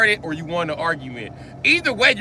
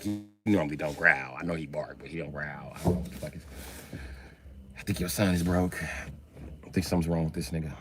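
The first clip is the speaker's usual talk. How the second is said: lightly voiced worried girlfriend; 11 dB quieter than usual.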